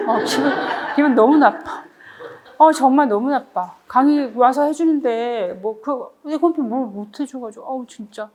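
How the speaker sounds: lightly acted hurt complaint; mock sulking. Lecturer acts out being refused an iced coffee, mock sulking. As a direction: grumble as if badly let down. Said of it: "제가 막 이러고 있어요".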